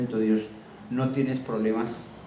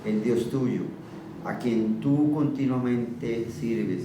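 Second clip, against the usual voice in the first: sad voice; 2 semitones lower, much slower than usual. Acted. King fearing Daniel is dead, sad slow voice. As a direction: drag each word out in grief. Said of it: "con voz triste".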